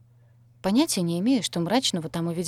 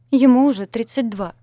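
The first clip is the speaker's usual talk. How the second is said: loud despairing outburst, higher; breathed out; 5 semitones higher, 9 dB louder than usual. A narrator's reading. Mistress gasping out the groom's age before sobbing. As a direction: exhale it on the edge of tears. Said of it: "выдохнула моя госпожа".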